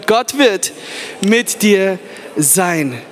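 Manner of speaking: slow "Gott wird mit dir sein", drawn out on "dir"; slow for neighbour. Shown as a demonstration. Preacher repeats the line, dragging out "dir". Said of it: "dreh dich um zu ihm und sag ihm".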